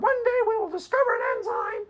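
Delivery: high, prissy mocking voice; mock Patricia Churchland. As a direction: squeak it out like a smug professor. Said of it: "literally word for word".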